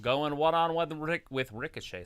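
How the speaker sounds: talking around a stick in the mouth; words muffled by a stick between teeth. Real, not acted. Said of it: "I got a stick in my mouth".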